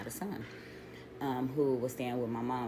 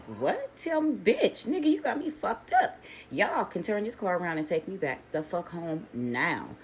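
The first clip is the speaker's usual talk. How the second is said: outraged yell; 4 semitones higher than usual. Retold or imitated. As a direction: blow up at them, pitch shooting up. Outraged at friend's pimp plan.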